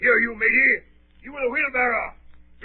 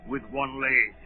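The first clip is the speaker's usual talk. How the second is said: a lightly voiced gruff old captain, probing; old sea captain. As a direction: lean in like a suspicious old sailor.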